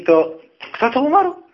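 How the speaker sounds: high, loud rising question; acted-out officer questioning a soldier; commander's pointed question. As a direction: demand an answer with a sharp lift at the end. Commander questions him before the company.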